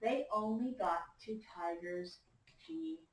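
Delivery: slow, emphatic storytime reading with swinging pitch; story read-aloud to children. A narrator's reading. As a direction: read it to a class of young listeners. Reads picture book to class.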